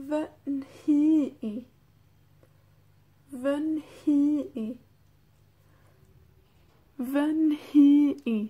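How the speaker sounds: fy nhi i with a long aspirated nhi and separate final i; pronunciation model. Shown as a demonstration. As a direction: sound out fy nhi i deliberately for learners. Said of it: "Vamos a practicar la pronunciación".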